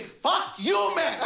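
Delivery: high, hammed-up yell; acted angry outburst. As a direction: explode at someone in mock fury. Acted outburst at nine-year-old.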